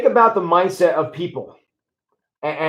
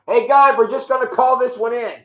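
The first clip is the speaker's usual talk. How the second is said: higher, breezy call-out to God; mock casual prayer; 6 semitones higher than usual. Pastor mimics believers phoning in prayers: higher, breezy mock call. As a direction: toss it up to God like ordering takeout.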